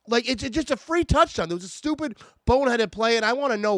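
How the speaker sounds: loud, high, exasperated shouting; angry rant. Real, not acted. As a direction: yell your disbelief at the team. Ranting about a blown punt.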